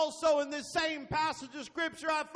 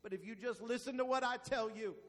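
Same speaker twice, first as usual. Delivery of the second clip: hushed, lowered God in a sermon; 4 semitones lower, 8 dB quieter than usual. Acted. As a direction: speak it quietly, as a voice in the night. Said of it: "there comes a voice of God that says".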